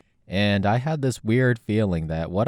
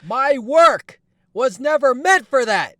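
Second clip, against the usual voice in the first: furious high outburst; 13 semitones higher, 4 dB louder than usual. Acted. Jung scolds the fans for defiling his book, high loud outrage. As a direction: scold them like vandals.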